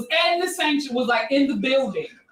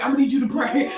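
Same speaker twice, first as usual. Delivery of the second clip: laughing Frank quote; faster than usual. Retold or imitated. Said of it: "He's like".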